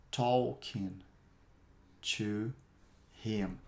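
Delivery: slow, one word at a time with long pauses. Shown as a demonstration. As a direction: give each word alone for repeating. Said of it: "Repete aí".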